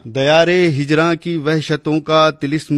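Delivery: measured, declaiming verse recital; poem recitation. Acted. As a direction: recite like a poet at a gathering.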